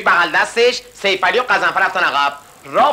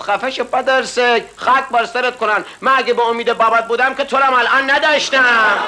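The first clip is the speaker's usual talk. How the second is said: higher mock angry scold; mock scolding mother; 6 semitones higher than usual. Rashti mother scolds her son, mock angry. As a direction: snap at the nosy son, hammed-up. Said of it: "گفت".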